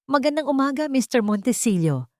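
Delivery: a hint of a stern police captain; cold official greeting. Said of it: "ang boses ay matigas".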